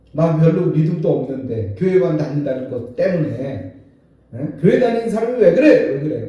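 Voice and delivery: loud, fast, indignant challenge; worldly accuser. Retold or imitated. Worldly people challenge a churchgoer, loud and indignant. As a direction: demand it like a fed-up neighbour. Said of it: "막 그러면서 따져요".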